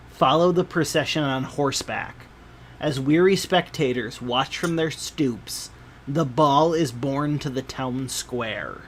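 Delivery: measured game master storytelling; scene narration. A narrator's reading. Game master describing a festival procession to players, measured narration. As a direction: read the scene out with deliberate phrasing.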